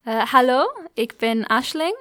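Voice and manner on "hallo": ordinary delivery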